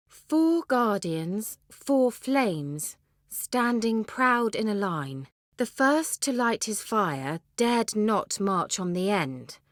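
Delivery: put-on slow, measured reading of an old verse; riddle recitation. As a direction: weigh each line like an ancient riddle.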